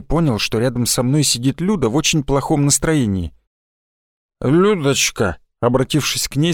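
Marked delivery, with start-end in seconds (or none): 4.4-5.4 tipsy, tongue tangled; drunk slurred speech. Acted. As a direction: slur it like after vodka. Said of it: "сказал я заплетающимся языком". (пьяным заплетающимся языком)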